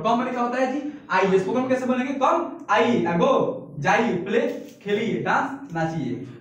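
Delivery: each English word hit sharp, Hindi meaning after; teacher drilling come, go, play, dance; drilled vocabulary. Shown as a demonstration. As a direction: chant the word pairs like a classroom drill.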